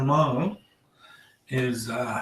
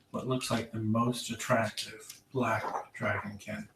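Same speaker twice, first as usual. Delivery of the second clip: hushed description; 5 semitones lower, 11 dB quieter than usual. A narrator's reading. Game master whispering to the players about the dragonkin. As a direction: whisper it like a tempting secret.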